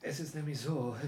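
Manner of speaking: usual speaking voice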